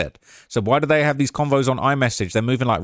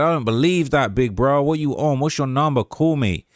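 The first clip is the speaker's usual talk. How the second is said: imitating a rapper; 3 semitones higher than usual. Retold or imitated. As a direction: read the message in a loose Southern impression. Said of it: "if I can do the Quando voice".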